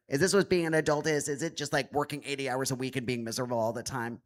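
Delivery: mock a weary new adult's griping, lightly; a hint of someone else's exasperated voice; pretend friend's voice. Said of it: "I'll pretend she sounds like this".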